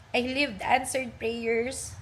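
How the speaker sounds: slow, emotional reading with a catch; close to tears. Real, not acted. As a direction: read it slowly, holding back tears. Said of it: "Di ba, naiiyak na ako? Binabasa ko lang".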